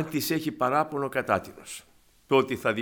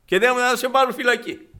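furious shout; 9 semitones higher, 7 dB louder than usual. Retold or imitated. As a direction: roar the threat of prison. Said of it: "Λέει". (ο πιστωτής απειλεί τον Λεωνίδα με φυλακή, ουρλιάζοντας)

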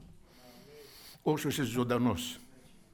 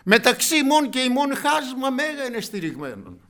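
loud, high, fervent sermon voice; preaching at full force; 11 semitones higher, 9 dB louder than usual. Acted. Preacher telling the congregation of the rich man, fervent loud preaching. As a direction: preach it out to the whole church.

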